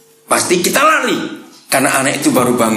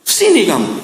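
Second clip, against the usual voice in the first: high called-out reply from the kitchen; mother answering a child who is grown; mock mother calling; 12 semitones higher than usual. (suara ibu memanggil dari dapur)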